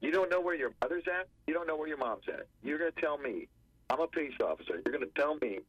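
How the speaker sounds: mock disbelieving grilling of a witness; retold interrogation. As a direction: act out an officer pressing for an answer. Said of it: "to interrogate the nine and the eleven-year-old".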